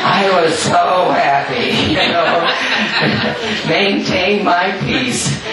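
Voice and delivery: laughing through the words, pitch lifting; bubbling over with real joy; happy laughter. Real, not acted. Laughing joyfully while telling.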